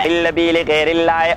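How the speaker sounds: slow, drawn-out chanted recitation; slow Quran recitation. Shown as a demonstration. Teacher reciting the verse to his students, slow chanted recitation. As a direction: intone the verse slowly, stretching each word.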